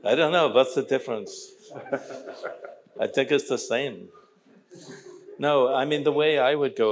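put-on joking Jewish accent. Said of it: "compelled to speak in a Jewish accent".

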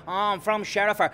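mocking Dublin accent for Sherifer; mock accent switch. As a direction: ape his shifting Dublin accent. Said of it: "change the accent wanker".

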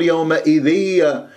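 يومئذية said with an extra ية tacked onto the end; wrong added ending. Shown as a demonstration. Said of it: "ما تقول يومئذية".

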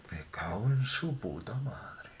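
slow breathless whisper; whispered curse. Real, not acted. Tras el susto, maldice. (maldición susurrada y lenta)

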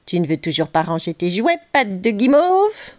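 lightly put-on villain voice, dragging out the last words; taunting trickster. Croquedouille confronts Léo about his toys, taunting.

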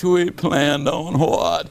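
slow, drawn-out puzzled question; exhausted husband baffled by what his wife planned. Retold or imitated. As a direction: stretch it out in disbelief.

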